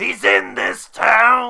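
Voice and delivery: loud high call, stretched "town". Asked by a friend to do his best impression, performing a Dr. Loomis impersonation. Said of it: "Do your best Dr. Loomis impersonation".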